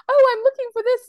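high, loud, play-acted innocence; playful imitation of a nun caught searching; retold Sister's reply. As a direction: act out an airy excuse, pitched well up. Acts out Sister's breezy reply.

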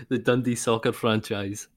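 slow, mock American accent; Tab Ramos American accent. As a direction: draw it out in a put-on American accent. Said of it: "I didn't make an accent".

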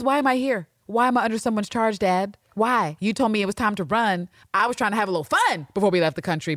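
mock-indignant teen complaint to her dad; indignant daughter. Recapper voicing a daughter's look at her dad, indignant.

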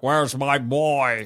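mock frantic father. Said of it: "he's like".

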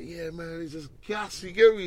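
high, excited Welsh lilt; Welsh accent. Retold or imitated. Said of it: "there was a Welsh youth in, in the holding cell. And he was like".

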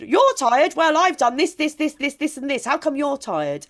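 mock someone who thinks you've no right to be tired; indignant mock scoff; scornful challenge. Mimicking a judgmental listener.

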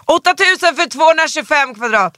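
high, loud disbelief at the price; indignant squeal; outraged exclamation. Real, not acted. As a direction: exclaim it as if it's absurd.

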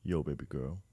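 low London roadman flirt; london roadman accent. Pretend. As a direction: drop low, cool street swagger. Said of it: "There's a Roadman".

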